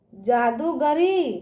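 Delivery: slow जादूगरी, दू held long; drawn-out long ū. Shown as a demonstration. Teacher asking children to repeat, जादूगरी with long ū. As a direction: stretch out दू in जादूगरी. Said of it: "इसका उच्चारण ना खींच के करते हैं".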